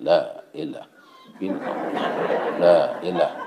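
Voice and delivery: low, softening dhikr, trailing away; tahlil recitation. Acted. Congregant at tahlil distracted by goat curry aroma, fading chant. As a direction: let the chant fade as attention drifts. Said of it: "ko tahlil la".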